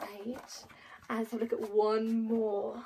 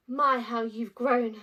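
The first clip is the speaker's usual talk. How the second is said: slow fond exclamation; 7 dB louder, slower than usual. Acted. Book heading, slow and loud.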